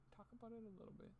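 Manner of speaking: mocking squeaky high voice. Echoing a critic's words in a silly high mock voice. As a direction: pitch it up to mock the line. Mocking voice, then plain repeat.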